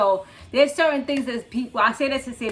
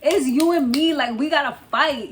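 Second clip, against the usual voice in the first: slightly raised, louder coach-like urging; rally a friend as if coaching her; imitated pep talk, pitched up a little; retold pep talk; 4 semitones higher, 4 dB louder than usual. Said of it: "that pep talk. Like, she was her coach".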